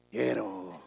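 put-on low, timid child's "Quiero"; small child's voice. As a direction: answer like a shy little boy. Small son answers. (niño tímido)

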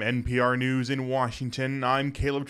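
slow, formal radio news read; newscaster voice. Pretend. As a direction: announce it like a public radio anchor. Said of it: "a nice newscaster voice".

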